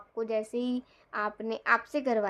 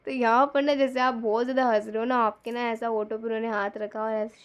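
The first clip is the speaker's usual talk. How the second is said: usual speaking voice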